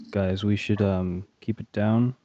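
put-on slow, careful Australian accent; Aussie accent. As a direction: murmur it like an Aussie adventurer. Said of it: "Why did you suddenly go Aussie?".

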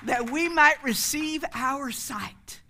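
loud, high, drawn-out plea; pleading call. Retold or imitated. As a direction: call out to the Lord in appeal. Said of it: "And they said".

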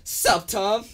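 high, loud mock African American accent; a hammed-up African American greeting. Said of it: "Just came out my black voice".

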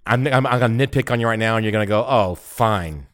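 talking while chewing gum; words round a wad of gum. Real, not acted. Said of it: "Can you get rid of your gum?".

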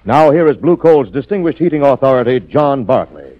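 friendly, persuasive ad delivery; steady, friendly radio sponsor read; commercial read. Acted. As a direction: sell the coal like a trusted neighbor.

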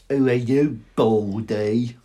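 lightly voiced cheeky boy; slow, taunting question, lightly put on; Dudley. Dudley meeting Voldemort, lightly taunting. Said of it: "That was my Dudley impression".

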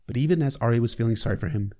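ordinary talk

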